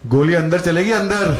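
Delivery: loud threat, leaning on अंदर; a light mock Delhi thug threat; menacing voice from the dark. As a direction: growl the threat from the back of the room. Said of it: "किसी की आवाज आई".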